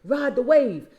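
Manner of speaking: preacher calling the congregation to listen; emphatic repeat. Acted. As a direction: make them hear it. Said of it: "y'all gotta hear me".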